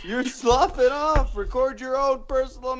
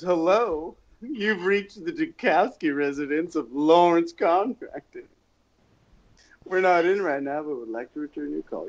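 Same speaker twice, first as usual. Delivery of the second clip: polished answering machine greeting, lightly imitated; receptionist voice; 5 semitones lower than usual. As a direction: recite it like an old phone message. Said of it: "No, it was".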